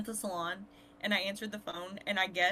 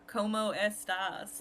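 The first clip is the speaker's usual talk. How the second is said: slow, exaggerated American accent in Spanish; Caucasian-accented Spanish; much slower than usual. Shown as a demonstration. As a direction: drag out the Spanish in a deliberately gringo accent. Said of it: "speak Spanish in my very Caucasian accent on purpose".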